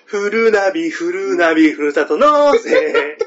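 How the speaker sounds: CMの親方の物真似、高く張って; 最後をゆっくり伸ばして声を張る; 貴乃花親方. Acted. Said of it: "親方でしょ、". (親方風のCM物真似)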